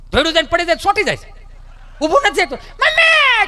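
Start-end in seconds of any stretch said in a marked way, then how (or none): 2.6-3.5 put-on very high, drawn-out childish wail; child wailing for mom. Fallen little boy wails for his mother, very high. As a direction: cry out for mommy like a fallen kid.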